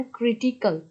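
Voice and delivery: ক্রিটিক্যাল with weight on "CRI"; ক্রিটিক্যাল, third-last syllable stressed; stress on first syllable. Shown as a demonstration. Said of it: "আরআই এর উপর স্ট্রেসটা".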